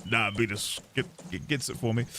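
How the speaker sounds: put-on British accent. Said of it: "I literally just saying".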